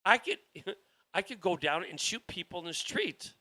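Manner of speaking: imitating a smug politician, laughing through it; mocking laugh. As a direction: chuckle out the boast like it's a joke. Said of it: "they're laughing at you going".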